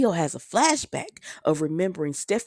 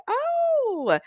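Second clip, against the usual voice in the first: surprised oh. Retold or imitated. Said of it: "she was like".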